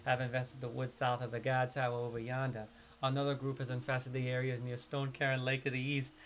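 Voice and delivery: easygoing New York accent quest read. Shown as a demonstration. Streamer shows chat his natural New York accent reading a quest. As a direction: read it like a laid-back New Yorker. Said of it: "That's normally how I would talk over here".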